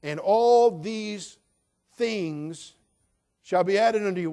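"and all these things" drawn out slow and high, rising into "shall be added unto you"; emphatic reading. Shown as a demonstration. Pastor stressing the verse to the congregation, slow emphatic. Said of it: "look at the last statement".

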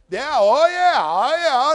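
high, loud, gloating oh yeah; gleeful yeah. Acted. Pastor relishing the sermon on thieves, loud gloating crow. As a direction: crow it like you can't wait to preach.

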